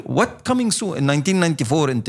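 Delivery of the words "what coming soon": high incredulous question; raised, disbelieving what; mock disbelief. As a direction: scoff at the coming soon page. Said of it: "شو ال".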